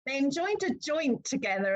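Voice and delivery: high-pitched retold reaction; mock disbelief. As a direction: replay the slip in a high, comic voice. Acting out her amused reaction.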